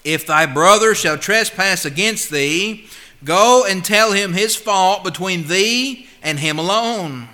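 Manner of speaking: slow, deliberate scripture reading; measured King James reading. Acted. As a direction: read the verse with weight. Reads scripture in preaching tone.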